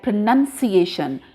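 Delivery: "pronunciation" as pro-nun-si-A-shun; demonstrated pronunciation. Shown as a demonstration. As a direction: model "pronunciation" with nun, not noun. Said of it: "This will be spoken like".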